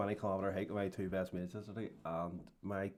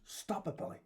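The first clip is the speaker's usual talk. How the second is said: imitating Billy Connolly; 9 semitones higher, 5 dB quieter than usual. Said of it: "and then he goes".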